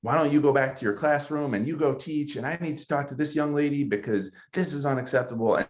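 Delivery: high-pitched indignant outburst, rising to a peak on terrible; a principal fuming on the student's behalf; outraged principal. Retold or imitated. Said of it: "gets in her feelings and she says".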